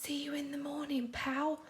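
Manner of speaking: soft, quick whisper. A narrator's reading. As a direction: breathe it so he stays asleep. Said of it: "whispered SpongeBob very quietly".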